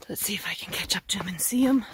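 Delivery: talking while hiking over bumps; words jolted by each step; bumpy walking. Real, not acted. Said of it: "Sorry it's so bumpy".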